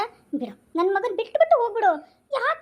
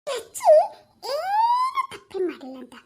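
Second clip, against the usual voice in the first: laughing through tears; 4 semitones higher, 3 dB louder, slower than usual. Acted. Acted plea to grandmother.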